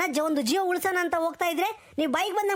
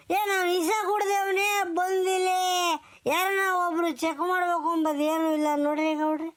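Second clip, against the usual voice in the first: crying complaint. Acted. Villager upset at hospital delay.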